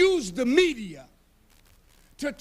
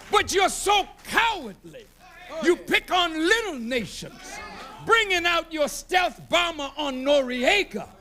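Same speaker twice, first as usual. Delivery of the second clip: shouted accusation at full force; preacher railing against a cowardly government; fiery preaching; 2 semitones higher than usual. Acted. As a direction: hammer the charges home from the pulpit.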